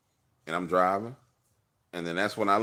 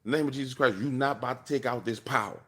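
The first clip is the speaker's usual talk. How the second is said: mildly higher, worked-up command; spazzing out; 4 semitones higher than usual. Retold or imitated. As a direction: say it like you mean it. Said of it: "And so I just spazzed".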